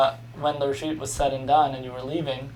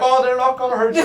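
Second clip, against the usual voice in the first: put-on high, loud, laughing try at an Australian accent; attempted Australian accent; 10 semitones higher, 8 dB louder than usual. Tourist mimicking an Australian guide's calm reassurance, failed Australian accent. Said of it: "I can't do the accent".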